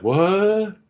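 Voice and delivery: high stunned "What?"; shocked. Retold or imitated. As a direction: gasp it out in disbelief. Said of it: "my mouth was just dropped".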